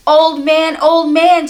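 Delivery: high, loud calling out; shouting. Acted. Boy calling the old man, shouting high and loud. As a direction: call out across the yard. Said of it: "Chang shouted".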